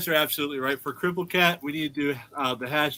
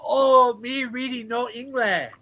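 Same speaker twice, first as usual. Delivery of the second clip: mock frauditor; 8 semitones higher than usual. Panelist mimicking frauditors who ignore the sign, mocking. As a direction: lift it high to mock them. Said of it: "You know what they say when they see that sign".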